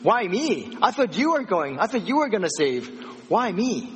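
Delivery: incredulous protest. Retold or imitated. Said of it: "Moses was like".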